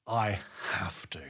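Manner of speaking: slow, hushed confession; intense whisper. Retold or imitated. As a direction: drop to a slow whisper for the weighty answer. Quotes own solemn answer.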